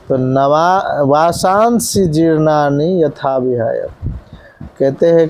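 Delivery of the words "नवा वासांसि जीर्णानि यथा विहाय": verse recited slowly; slow recitation. Shown as a demonstration. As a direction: read it out carefully. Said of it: "धीरे धीरे पढ़ता हूँ". (धीमा पाठ)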